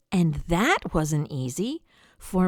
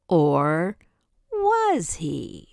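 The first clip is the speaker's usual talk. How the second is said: suspense whisper; 3 semitones lower, much slower than usual. A narrator's reading. Suspense question.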